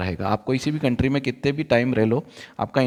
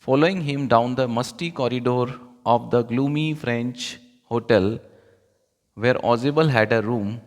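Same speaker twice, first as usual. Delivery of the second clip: slow reading aloud; much slower than usual. Acted. Reads English passage slowly.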